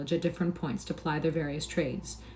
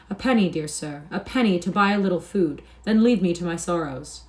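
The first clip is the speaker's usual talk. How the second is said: faking anguish; 2 semitones higher, 4 dB louder than usual. Pretend. Hugo fakes agony, begs stranger.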